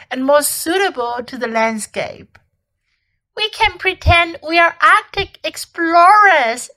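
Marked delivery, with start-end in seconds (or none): 3.3-6.7 put-on high, excited little girl voice; acted childlike eagerness, pitched up; eager suggestion. A narrator's reading. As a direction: propose a game with delight. Lucy proposes a game of pretend.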